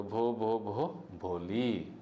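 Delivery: slow halting lead-up to the name; stammer, then push the name out; mild mock stammer ending in the full name. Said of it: "At last she was able to say it".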